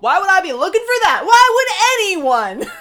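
loud, high disbelieving outburst; exasperated. Real, not acted. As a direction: throw up your hands in disbelief. Exasperated outburst about the photo.

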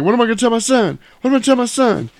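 hammed-up pleading; mock desperate wail. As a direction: wail it out in put-on despair. Arrested villain laments, acted.

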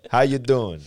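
New York Italian greeting; mock Italian-American accent. Shown as a demonstration. Showing his one phrase, mock Italian-American accent. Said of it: "Isn't that more New Yorker?".

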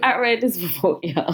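says it through a laugh. Real, not acted. Reader laughing while answering a friend. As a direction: laugh it off, amused.

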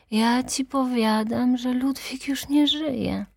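high, slow insistence; insistent. Acted. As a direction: spell it out to a daughter, drawn out. Mother insists the husband is dead.

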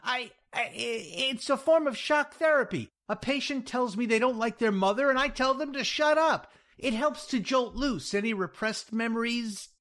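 high, stammering, babbled explanation; stammer, then gabble in a high, pressured voice; desperate bluffing. Acted. Jack bluffing to unconvinced Louise about shock therapy, desperate.

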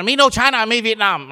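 indignant outburst, played for laughs; mock freak-out. Newcomer protesting at being called China, mock outrage. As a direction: retell blowing up in comic protest. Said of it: "I freaked out. I blew up".

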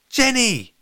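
high, loud cry of surprise; loud, high-pitched astonishment; surprised exclamation. A narrator's reading. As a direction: call out the name, startled. Lola startled to find Jenny.

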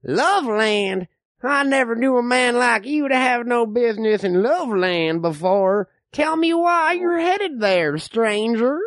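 lightly voiced old frontiersman; old man. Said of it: "I'm the old man".

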